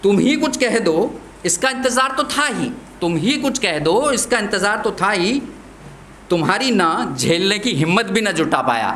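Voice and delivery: recited verse, lines repeated with care; poem recitation. Acted.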